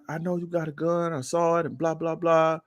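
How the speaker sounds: high, put-on officer voice; mimicked accusing officer. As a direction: imitate an insistent accusing cop. Officer accusing him in retold quarrel.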